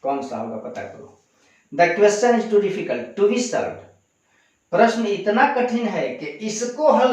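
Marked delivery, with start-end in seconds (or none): 1.7-3.9 dictating to a class, word by word; slow dictation. Shown as a demonstration. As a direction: read the sentence out very slowly and clearly. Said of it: "teacher rereads model sentence". (बहुत धीमे, साफ़ बोलकर पढ़ना)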